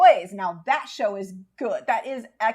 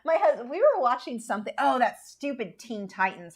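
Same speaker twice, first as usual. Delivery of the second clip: ordinary talk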